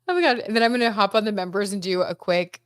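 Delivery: talking through a yawn; words stretched by a real yawn. Real, not acted. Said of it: "I'm so sorry that I'm yawning".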